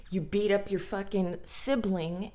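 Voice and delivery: ordinary talk, nothing marked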